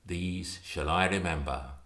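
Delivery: poem recital. Acted. Reader reciting Stevenson's poem to an audience, solemn poetry recital. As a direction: read it like a lament for lost youth.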